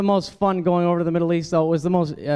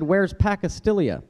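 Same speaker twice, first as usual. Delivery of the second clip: puzzled quote; 4 semitones higher, slower than usual. Retold or imitated. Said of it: "somebody actually said".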